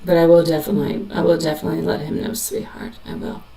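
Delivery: soft, gentle reassuring reading; tender medium message. Acted. Medium comforting a grieving mother, soft and tender. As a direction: speak softly as if passing on a spirit's words.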